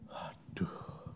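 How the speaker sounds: breathless whispered groan; whispered dismay. Retold or imitated. Preacher caught out by God, whispering dismay. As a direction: whisper it like you've been caught.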